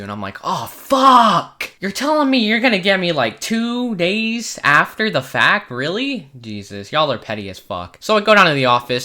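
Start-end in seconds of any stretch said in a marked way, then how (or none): 0.4-8.0 dismay. Retold or imitated. Called to office.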